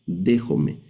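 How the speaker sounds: "dejome" with the last syllable a pure E; Greek word reading. Shown as a demonstration. Teacher reading the Greek word for students, final E. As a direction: end "dejome" on E, tune falling. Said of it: "Se lee la, esta palabra".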